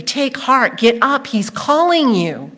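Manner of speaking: voicing an encouraging crowd; urging encouragement. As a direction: cheer someone on, pitch lifting. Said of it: "They are encouraging him".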